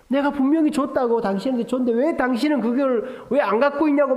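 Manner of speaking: imitating wife's high-pitched complaint; acted-out indignant nagging; angry accusing. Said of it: "막 저한테 따지는 거예요".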